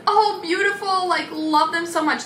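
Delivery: lightly voiced fawning friends; gushing salon girls. The student's salon friends praising bad nails, mock coo.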